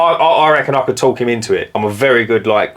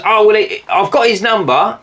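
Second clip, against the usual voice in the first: lightly raised voice playing the wife; a hint of the curious wife, pitched up a bit; mock wife voice; 7 semitones higher than usual. Wife voiced asking the price.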